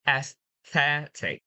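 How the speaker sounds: slow AESTHETIC, stressed on THE; stress before IC. Shown as a demonstration. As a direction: lean on the middle syllable of aesthetic. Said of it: "you need to put a stress before it".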